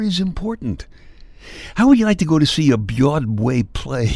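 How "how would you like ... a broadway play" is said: mock indignant. Mock rant about dropped R.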